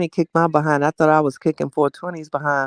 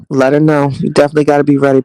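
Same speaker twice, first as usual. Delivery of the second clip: excited hype; 6 dB louder, much faster than usual. Real, not acted. Egging on chat about crystals.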